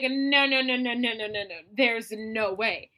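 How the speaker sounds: denial. Retold or imitated. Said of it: "they're like".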